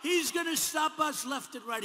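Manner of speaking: mock rant; mock ranting Bernie. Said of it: "He's ranting and raving".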